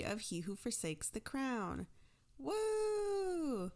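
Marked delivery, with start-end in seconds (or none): 2.4-3.7 high gleeful whoop; a quick burst of cheer; excited whoop. Real, not acted. Podcast host cheering to start the episode, excited whoop.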